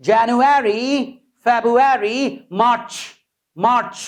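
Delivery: January, February, March said clearly in turn; practice drill. Shown as a demonstration. Teacher runs a practice drill for learners. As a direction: run the months clearly. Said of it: "so practice".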